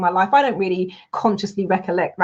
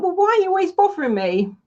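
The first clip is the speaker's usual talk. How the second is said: pitched up, exasperated question at a nagging voice; 8 semitones higher than usual. Retold or imitated. To the nagging inner voice, exasperated and high. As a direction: throw up your hands, high and fed up.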